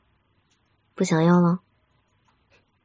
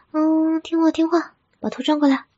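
higher-pitched, gentle coaxing; 7 semitones higher than usual. Acted. Girlfriend to sulking partner who won't look at her, coaxing. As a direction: coax them like a little one.

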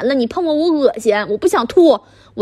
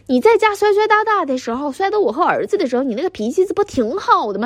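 angry scolding; 3 semitones higher than usual. Acted. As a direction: berate him for being useless. Wife berating husband over son's job. (气急败坏地数落)

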